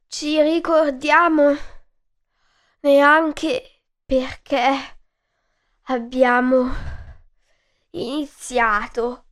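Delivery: slow, halting old voice, a hint of a rasp; tired old giraffe asking for peace; old giraffe, wheezing. Old giraffe offers the mouse peace, slow and halting. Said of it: "fece un rantolo e disse".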